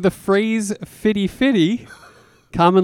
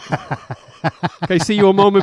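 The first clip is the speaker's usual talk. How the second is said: ominous interrogator; 3 semitones higher, slower than usual. Pretend. Sinister interrogator role play.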